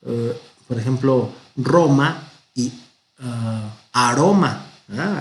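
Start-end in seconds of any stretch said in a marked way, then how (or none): 1.6-2.3 "Roma" with a strong rolled r, drawn out; strong Spanish R. Shown as a demonstration. Teacher contrasting the two Spanish Rs, strong r in "Roma". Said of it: "uno fuerte y uno suave". 3.9-4.7 "aroma" with a single soft tapped r; soft Spanish R. Shown as a demonstration. Teacher contrasting the two Spanish Rs, soft r in "aroma". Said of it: "Ahí es suave".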